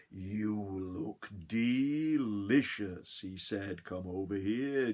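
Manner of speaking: slow, savouring farmer's voice; greedy farmer. Acted. Farmer eyeing the gingerbread man, slow greedy savouring. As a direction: drool over the treat. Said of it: "all he did was this".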